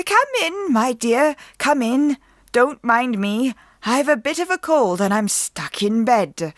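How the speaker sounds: high sweet put-on granny voice; a man faking a sick grandmother; fake granny. A narrator's reading. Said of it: "her grandmother's voice call".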